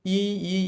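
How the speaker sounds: ই, ই as two separate short beats; ই, ই broken apart, each ই clipped off on its own; split vowels. Shown as a demonstration. Teacher showing the wrong, broken way. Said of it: "এ না বলে".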